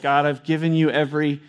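lightly voiced Moses begging to be let off; a hint of a broken man pleading with God. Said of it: "I picture Moses is like this".

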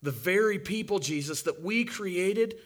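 normal talking voice

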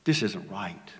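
whispered in dismay; stunned whisper to God; hushed whisper. Retold or imitated. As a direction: breathe it out, barely voiced. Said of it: "I was like".

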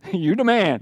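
casual "You the man." with a laugh, as easy praise; laid-back slang compliment. Retold or imitated. Preacher mocks the wrong reading of Nathan, casual and laughing. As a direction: toss off "You the man." like a friendly cheer. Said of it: "he didn't say, "You the man".

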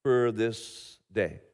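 hushed pastoral prayer. Acted. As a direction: pray quietly and reverently. Opening prayer before sermon.

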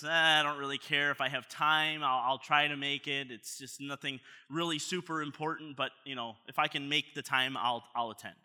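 noncommittal, take-it-or-leave-it reply; acted indifference. Invitee weighing an unimportant event, indifferent. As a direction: shrug off the invitation with mild disinterest. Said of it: "could be one of indifference".

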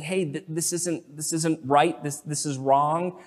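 soft, slowed, careful reproof; loving correction. Acted. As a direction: confront them gently, keeping the voice down. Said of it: "in love, speak the truth to them".

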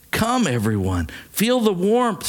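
understated plea, rising high at the end; pleading. A narrator's reading. Woman urging those in the cave, mild pleading. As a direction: plead gently, lifting on the last words. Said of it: "she pleaded with those in the cave".

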